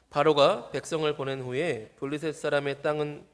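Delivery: steady, measured read-aloud voice; scripture reading. Acted. Preacher leads the congregation in reading the passage, steady scripture-reading voice. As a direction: read the verse out for all to follow.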